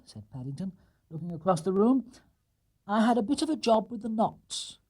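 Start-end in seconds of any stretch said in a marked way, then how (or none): 2.9-4.8 higher, sheepish bear. Acted. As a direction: admit the trouble with knots. Paddington explains.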